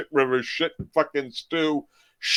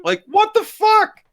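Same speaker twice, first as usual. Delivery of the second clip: exasperated disbelief; 6 dB louder, slower than usual. Real, not acted. Ranting about Eugene's dialogue.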